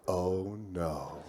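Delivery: hushed, low, slow-dawning dread; dismayed. Retold or imitated. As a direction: let it sink out under the breath. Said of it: "I'm going".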